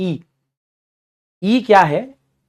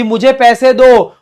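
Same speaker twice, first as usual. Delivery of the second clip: louder, higher, slowed demand; mock yell for money; mock shout of a partner; 5 semitones higher, 7 dB louder, slower than usual. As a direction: bellow the demand like a greedy partner. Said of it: "partner चिल्ला चिल्ला के बोल रहा है".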